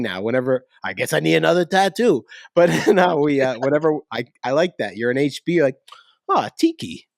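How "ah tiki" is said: high-pitched imagined plug; lightly hammed-up pitch for the podcast; mock promo voice. Acted promo quote, high pitch.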